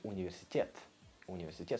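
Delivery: "университет" with a hard final "тет", rising; Russian word demo. Shown as a demonstration. Teacher contrasting English and Russian words, clear demo. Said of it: "In Russian, that would be".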